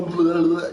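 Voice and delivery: mock babbling noise; imitated gibberish. Imitating for listeners what her garbled speech sounds like, mock gibberish. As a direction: babble nonsense syllables in imitation. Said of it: "But what we hear is".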